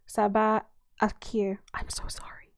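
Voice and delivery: attempted Arabic accent trailing to whisper; mumbled Arabic accent. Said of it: "in what she hoped was an Arabic accent".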